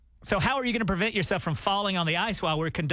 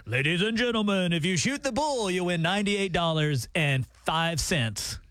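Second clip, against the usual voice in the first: hammed-up arena announcer, drawn out at the end; fake announcer voice; 3 semitones higher than usual. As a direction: boom it like a PA announcer. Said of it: "that fake announcer voice that you use".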